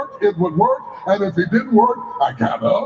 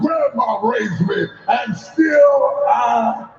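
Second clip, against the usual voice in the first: preaching refrain. Acted. Preacher leading a rising refrain, measured.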